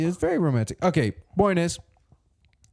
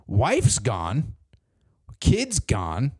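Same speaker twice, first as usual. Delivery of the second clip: dramatic whisper; 3 semitones lower, much slower than usual. Acted. Dramatic reveal of empty house.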